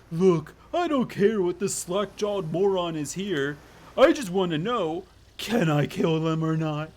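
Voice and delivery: put-on voice for an impatient killer; lightly voiced bloodthirsty character. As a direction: demand an answer in character.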